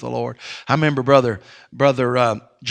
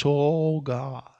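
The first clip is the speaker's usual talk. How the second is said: put-on old preacher's prayer. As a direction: pray over the child gently, barely above a breath. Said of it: "He said something like this".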